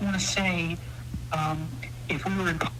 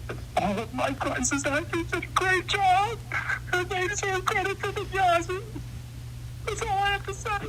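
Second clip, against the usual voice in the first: high-pitched character voice; 14 semitones higher than usual. Acted. Hillary character boasting, high.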